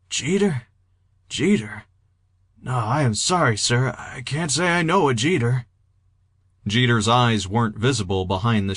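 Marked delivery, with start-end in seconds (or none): 0.1-5.7 gently puzzled, polite and measured; calm, gentle. A narrator's reading. Confused patient to a stranger named Jeter, calm and gentle. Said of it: "He spoke calmly, even a bit gently".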